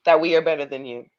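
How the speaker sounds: mock apology, dripping with irony; sarcastic. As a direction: fake sorry, really gloating. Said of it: "because I'm being sarcastic".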